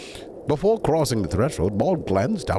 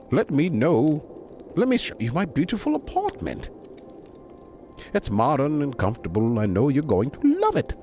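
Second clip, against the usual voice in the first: a higher, welcoming hostess voice; lightly voiced eager hostess; 5 semitones higher than usual. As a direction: show off your home with a touch of eagerness. Jasmine eagerly showing off her apartment.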